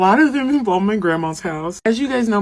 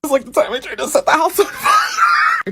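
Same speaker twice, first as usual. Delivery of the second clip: laughing through it; 11 semitones higher than usual. Real, not acted. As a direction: blurt it out mid-laugh. Laughing while confessing.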